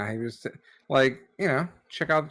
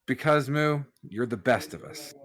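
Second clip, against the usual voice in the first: gentle reassurance. Acted. Reassures Moo, hand on shoulder.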